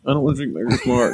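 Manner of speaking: lightly voiced sulky child; mock whine of a kid avoiding school; whiny little kid. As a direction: imitate a child grumbling in protest. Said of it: "a little kid not wanting to go to school".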